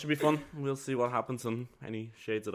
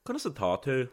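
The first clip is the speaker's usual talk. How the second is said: Irish phrase in a northern accent; northern Irish lilt, rising at the end. Shown as a demonstration. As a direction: say it as they do up north in Ireland. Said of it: "up north, we call it is".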